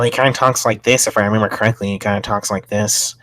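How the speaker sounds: lightly imitated man's speaking style; imitating a man's talk. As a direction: recall how he talked, a light imitation. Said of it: "I think that's how he talked".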